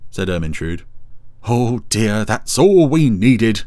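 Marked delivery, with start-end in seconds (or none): 1.4-3.6 slow, emphatic exclamation, getting louder; exasperated Dougal. Acted. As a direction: groan out the words in exasperation. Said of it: "exclaimed Dougal".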